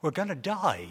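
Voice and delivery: half to himself, first dawning fear; quiet panic. Acted. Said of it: "he panicked".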